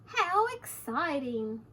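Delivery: drawn-out storybook exclamation; mild excitement. Acted. Harriet the chicken delights in being fish, mildly excited. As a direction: savour it slowly, a touch of excitement. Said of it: "exclaimed Harriet".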